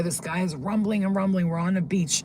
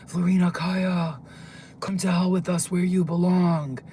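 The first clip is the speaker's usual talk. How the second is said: mildly raised, menacing summons; mock scary scream; 4 dB louder than usual. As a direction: imitate a scary giant calling someone out. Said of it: "So he screams out".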